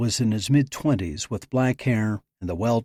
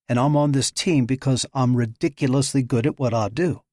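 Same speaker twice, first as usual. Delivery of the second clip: defiant; 3 semitones higher, 3 dB louder than usual. Acted. Nicole angrily defends herself.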